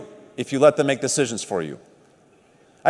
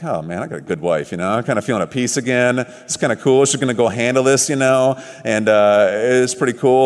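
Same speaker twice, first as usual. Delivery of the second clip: relieved calm; 6 semitones lower than usual. Retold or imitated. Calmed by his wife.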